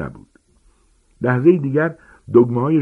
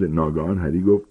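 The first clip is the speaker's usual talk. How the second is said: ordinary delivery, nothing marked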